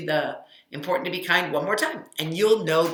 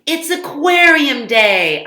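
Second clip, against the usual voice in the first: higher, louder excited call; excited shout; 9 semitones higher, 14 dB louder, slower than usual. Acted. Boy calls out coming down for breakfast, excited. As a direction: announce it like the best day ever. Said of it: "I shouted".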